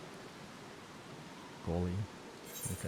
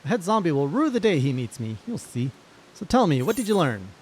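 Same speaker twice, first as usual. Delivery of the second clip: higher, lively storybook hero voice; eager adventurer; 8 semitones higher, 8 dB louder than usual. Acted. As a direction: play a plucky, boastful quest leader.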